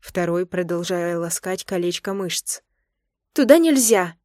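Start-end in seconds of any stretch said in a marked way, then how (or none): 3.3-4.2 high, loud cry of no; alarmed protest. Acted. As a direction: stop him in alarm. Wife protests in bed.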